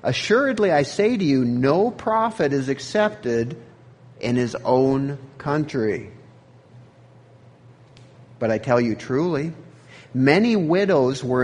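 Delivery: Jesus declaring. Acted. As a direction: proclaim it with calm, measured authority. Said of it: "Then he answered".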